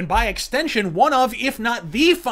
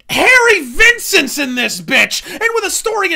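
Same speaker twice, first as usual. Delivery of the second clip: over-the-top booming shout; full-on hype yell; 9 semitones higher, 8 dB louder than usual. Real, not acted. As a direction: scream it out even bigger. Repeated louder hype.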